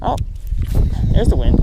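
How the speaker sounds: talking over gusts of wind; wind in the face. Real, not acted. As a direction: wind blowing into the mic. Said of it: "Apologize if it gets windy".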